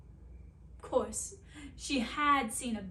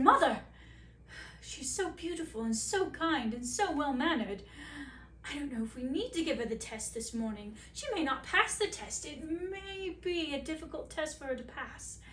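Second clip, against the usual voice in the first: lightly voiced fretting prince, louder on Mother; a hint of a worried young prince; anxious prince; 2 semitones higher, 4 dB louder than usual. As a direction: prince pleading with his mother, mildly anxious.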